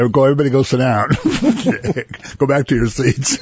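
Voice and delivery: calling out. Real, not acted. Calling dancers back to seats.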